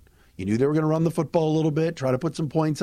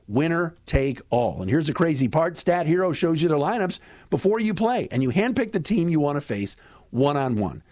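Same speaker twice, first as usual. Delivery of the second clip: ad read. Acted. Host reads a second sponsor ad.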